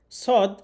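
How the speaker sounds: "সদ" said heavy, with a whistle; thick whistled Sad. Shown as a demonstration. Teacher showing how "সদ" is pronounced, thick and whistled. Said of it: "শীষসহ মোটা করে পড়তে".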